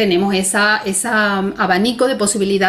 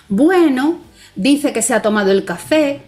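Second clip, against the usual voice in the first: doubtful trailing off; 4 semitones higher than usual. Shown as a demonstration. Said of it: "para explicar la duda".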